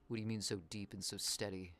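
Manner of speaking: low, hushed mock calm; soft deep voice. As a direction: keep it quiet and low. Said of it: "Talking so deep with a steady, calm voice".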